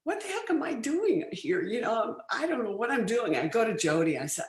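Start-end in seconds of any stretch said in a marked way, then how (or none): 0.0-3.3 nervous. Retold or imitated. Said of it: "I was very nervous".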